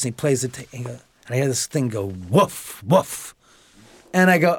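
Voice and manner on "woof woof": mock dog bark. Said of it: "imitating a dog barking".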